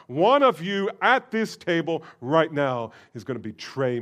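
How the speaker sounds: loud, high, urgent; forceful proclamation; loud blurt. Acted. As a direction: shout the betrayal to the table. Second reading, blurted.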